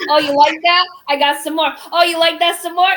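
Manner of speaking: high, loud teasing purr, oh you like that; sultry seller voice. Retold or imitated. Seller teasing her live buyers, high and loud. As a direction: coax the buyers like a flirt. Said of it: "She goes".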